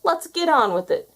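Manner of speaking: villain roaring a cruel threat. A narrator's reading. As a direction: bellow the threat at the boy. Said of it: "he roared".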